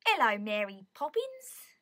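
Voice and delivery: slow, badly faked Cockney greeting; drawn-out, unconvincing Cockney. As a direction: attempt a Cockney accent and miss. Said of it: "Can't do a Cockney accent".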